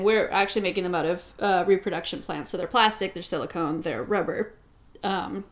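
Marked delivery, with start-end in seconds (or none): 5.0-5.4 talking through a burp. Real, not acted. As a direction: burp slipping into the word. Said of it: "excuse me, I'm burping".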